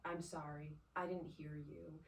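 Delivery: apologizing sincerely on the phone to her husband; humble apology. Retold or imitated. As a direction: eat humble pie gently. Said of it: "apologize and humble myself".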